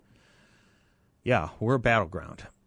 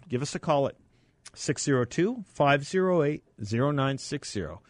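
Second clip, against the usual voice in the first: upbeat giveaway announcement; radio contest promo; 2 semitones higher than usual. Acted. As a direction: pitch the ticket giveaway eagerly.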